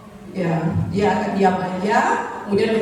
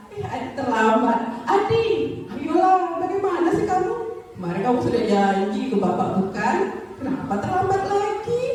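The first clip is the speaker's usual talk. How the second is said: laughing friendly teacher; 7 semitones higher than usual. Acted. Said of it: "dia sambil ketawa".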